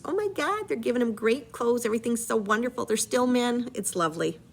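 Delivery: a hint of sarcastic delight; mock gushing. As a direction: gush over the fine clothes, tongue in cheek. Mocking gushing reaction to the clothes.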